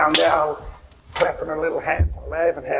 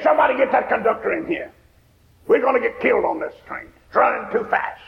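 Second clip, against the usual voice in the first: frantic woman; 7 semitones higher than usual. Retold or imitated. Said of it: "She got frantic".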